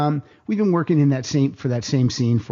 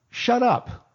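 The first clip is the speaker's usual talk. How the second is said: mock snapping; 10 semitones higher than usual. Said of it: "I said".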